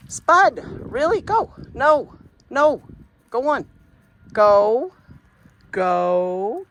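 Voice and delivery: high, loud yells to shoo a dog; shouting at the dog. Real, not acted. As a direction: bark the commands at the dog. Chasing the dog off.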